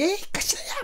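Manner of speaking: "가시나야" in strong Gyeongsang dialect, pitch leaping up; old thick Gyeongsang accent, hammed up; stronger Gyeongsang intonation. Shown as a demonstration. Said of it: "더 셌거든요".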